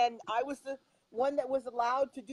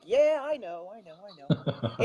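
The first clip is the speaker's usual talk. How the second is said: lightly imitated Iowa accent; a touch of Iowa accent, tailing lower; 4 semitones lower than usual. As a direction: quote him with a hint of an Iowa accent. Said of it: "in his Iowa accent".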